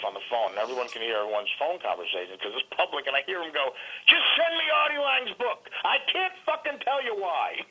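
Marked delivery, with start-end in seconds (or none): 4.1-7.6 much higher, pushy New Jersey guy voice; New Jersey accent. Retold or imitated. Rehab Jersey guy barking at wife on phone, New Jersey accent. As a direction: imitate a rough New Jersey guy with attitude. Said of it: "Jersey guys with a, a shitty attitude and an accent".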